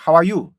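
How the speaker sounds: "how are you" with open 하우; Korean-style mispronunciation. Shown as a demonstration. Teacher shows the faulty result, Korean-style "how are you". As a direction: stiff "how are you" without English rhythm. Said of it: "이렇게 된단 말이에요".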